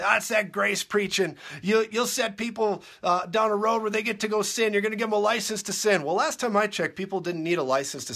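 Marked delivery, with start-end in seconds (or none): 0.0-6.0 high, loud whiny imitation of the critics; mock critic voice. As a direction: parody the naysayers, pitch up. Mocking critics of grace preaching.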